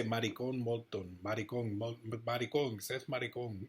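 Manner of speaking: put-on teasing chant in a light Spanish accent, Maricón with a tapped r. Imagining Spanish speakers mocking the name, light Spanish accent. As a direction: rattle off Maricón Moulton as a Spanish speaker might. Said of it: "they would probably say".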